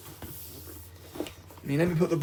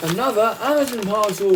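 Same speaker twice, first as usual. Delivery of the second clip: excited announcement; 6 semitones higher, 6 dB louder than usual. Real, not acted. Announcing a new parcel arrival.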